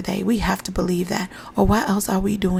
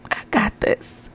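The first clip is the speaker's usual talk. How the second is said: slow breathy self-talk whisper; whispering a mantra to a struggling mom; whispered affirmation; slower than usual. Shown as a demonstration. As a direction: whisper it to yourself slowly. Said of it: "Tell that to yourself".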